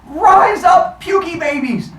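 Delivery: high, loud battle cry; rallying shout. Acted. Zeus rallying the pukey babies, high shouted command. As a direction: call the troops to rise in a high shout.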